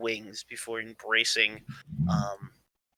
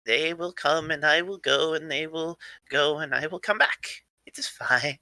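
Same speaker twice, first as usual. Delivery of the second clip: put-on lilting, childlike comfort in a character voice; eccentric grandson reassuring; 4 semitones higher than usual. Plays the excitable grandson reassuring.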